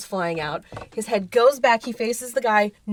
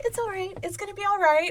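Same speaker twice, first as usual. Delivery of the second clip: high reassuring calm; 10 semitones higher than usual. Retold or imitated. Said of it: "he's like".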